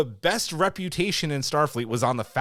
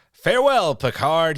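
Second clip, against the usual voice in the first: higher, louder, grand villain send-off; imitating a dramatic farewell; 3 semitones higher, 6 dB louder than usual. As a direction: give the farewell a big theatrical swell. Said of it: "when he says".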